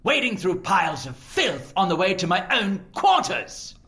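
haughty scolding. Acted. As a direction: look down on him and scold. Lord scolding the servant.

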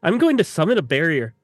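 put-on William Wallace style Scottish accent. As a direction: put the Scottish brogue back on. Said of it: "How would William Wallace say it?".

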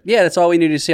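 high-pitched imitation of a brush-off; mock dismissive casting director. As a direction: dismiss the actor in a high put-on voice. Acted casting director in retold audition.

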